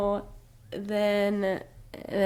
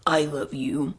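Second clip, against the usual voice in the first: low, slow mock-romantic murmur; 4 semitones lower than usual. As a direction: croon it like a corny lover. Mocking Tamlin's corny line.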